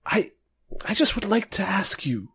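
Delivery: high-pitched, friendly grandpa voice; friendly old man. Acted. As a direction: play a kindly old man, pitched well up. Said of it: "like, kinda grandpa thing".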